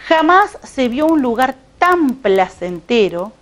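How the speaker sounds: measured storytelling read-aloud; lectura de cuento. A narrator's reading. Reads the story fragment aloud. (lectura pausada de narración)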